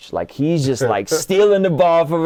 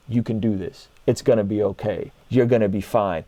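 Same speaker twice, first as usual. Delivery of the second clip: reassuring father; 3 semitones lower than usual. Retold or imitated. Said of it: "A good father telling his son".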